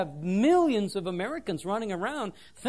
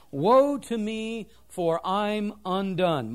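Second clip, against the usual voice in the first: anguished cry; 5 dB louder, much slower than usual. Acted. Preacher quoting Isaiah's cry.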